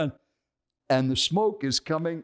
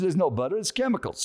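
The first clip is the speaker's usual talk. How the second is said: high-pitched mock indignation, not shouted; insistent, raised-pitch lecture in a retelling; retold scolding; 7 semitones higher than usual. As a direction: imitate a stranger denouncing the food. Acted stranger scolding his food.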